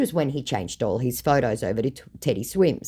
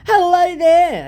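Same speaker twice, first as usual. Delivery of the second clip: scammer voice; 10 dB louder, slower than usual. Retold or imitated. New scammer greeting.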